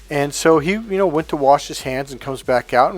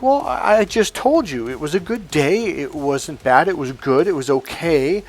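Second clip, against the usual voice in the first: uptight; 3 semitones higher than usual. Retold or imitated. Husband insisting to his wife his day was good, uptight. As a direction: imitate a husband getting testy. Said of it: "the tension was raising".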